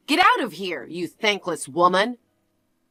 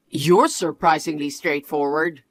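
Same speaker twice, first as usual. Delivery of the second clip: lower, cold lecturing voice; condescending husband; 6 semitones lower than usual. Acted. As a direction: talk down to your wife, low and smug. Husband voice again.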